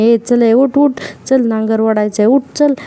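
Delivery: lightly acted commands rising to a yell; bossy call. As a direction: bark her up off the ground, half-acted. Ordering fallen girl to get up.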